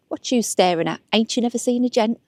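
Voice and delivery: a hint of a put-on Cockney stage accent, rising at the end; terrible Cockney accent. Recalling her school play role, a mild hammed-up Cockney accent. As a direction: lightly play the Artful Dodger's cheeky Cockney opening line. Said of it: "with my terrible accent".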